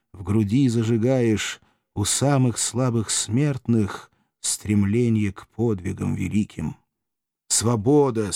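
slow, stately recital of a freedom hymn; solemn hymn recital. A narrator's reading. Narrator reciting the gladiators' hymn of freedom, solemn and slow. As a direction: read it like a rousing anthem, slow and proud.

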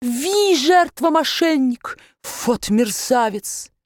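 put-on high, slow German-accented indignation; outraged accented baron. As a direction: rage at the swindler. (высокое возмущение с акцентом)

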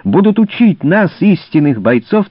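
angry shouting. A narrator's reading. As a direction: hurl the accusations angrily. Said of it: "закричал Конрад Шрам".

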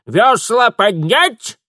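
slow, high, loud call; shouted order. Acted. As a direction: bark the order. Old woman calling next order.

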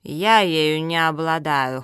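slow, drawn-out dismissal; dismissive humph. Acted. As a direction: dismiss it slowly with mild scorn. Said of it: "хмыкнула Зоя".

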